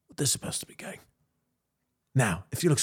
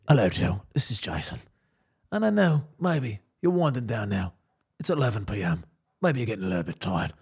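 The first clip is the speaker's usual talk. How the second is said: hint of a soothing late-night reader; lightly hushed Polish-accented bedtime read, low-key; bedtime story voice; 3 semitones lower than usual. Reading Joe to sleep, mild soothing accented voice. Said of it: "I need, like".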